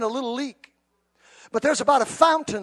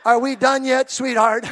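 impatient husband; 7 dB louder than usual. Retold or imitated. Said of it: "I learned not to talk like that".

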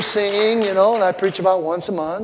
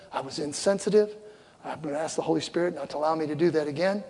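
tender apology; 8 dB quieter than usual. Retold or imitated. Retold apology to his wife.

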